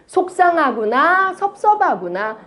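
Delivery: slow, tender sympathy; a gentle demo of soothing words; model phrase to repeat. Shown as a demonstration. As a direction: say it slowly for the audience to echo. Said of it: "따라할게요. 시작".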